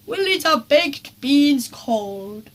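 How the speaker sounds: slow, cheery determined; Dad cheerily making the best of the rain; forced cheer. A narrator's reading. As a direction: put a brave face on it. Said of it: "said Dad brightly".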